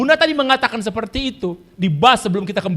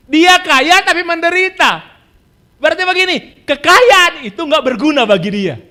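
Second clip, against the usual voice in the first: emphatic preaching; 5 semitones higher, 5 dB louder than usual. Acted. Preacher driving home a point.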